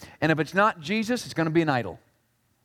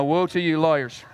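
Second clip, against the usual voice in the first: "Woe" said with a laugh; joking take; laughing joke; 2 semitones lower than usual. Shown as a demonstration. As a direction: chuckle it as a jab at lawyers. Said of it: "That was a joke".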